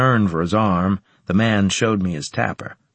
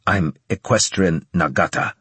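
put-on slight Japanese accent; 2 semitones lower than usual. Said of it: "he said with a slight Japanese accent".

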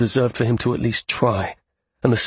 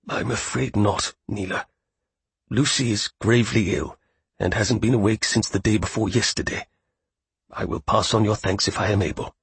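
muffled grief. Acted. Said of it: "he replied in a muffled voice".

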